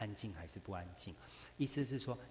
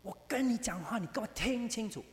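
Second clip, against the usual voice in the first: higher, louder, bossy scold; 12 semitones higher, 6 dB louder than usual. Retold or imitated. Preacher imitates a domineering wife scolding, loud and high. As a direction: order him to listen, sharply raised. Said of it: "一定说".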